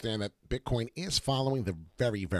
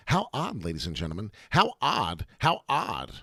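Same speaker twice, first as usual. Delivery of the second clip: lightly voiced Walken, odd clipped emphasis on "How odd"; a hint of Christopher Walken's quirky cadence; half-joking celebrity voice; Christopher Walken impression. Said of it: "I sound so silly ... like Christopher Walken".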